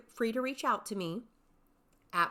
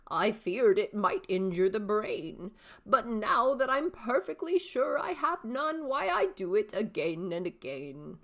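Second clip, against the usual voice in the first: a hint of a cheeky old man, a bit louder; old father; 4 dB louder than usual. Shown as a demonstration. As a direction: answer your son with sly pride. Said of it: "three distinct character voices".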